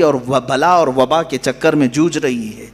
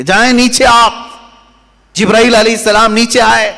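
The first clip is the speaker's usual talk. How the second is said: raised, ringing proclamation; commanding preaching; 6 semitones higher, 4 dB louder than usual. Retold or imitated. Preacher retells God's order to the angel, commanding proclamation. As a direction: proclaim the order high and forcefully.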